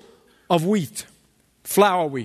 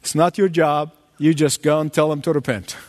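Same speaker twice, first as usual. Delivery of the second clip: lower, calm, brisk reply from God; a firm, settled answer, pitched lower; voice of the Lord; 6 semitones lower than usual. Retold or imitated. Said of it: "And the Lord says".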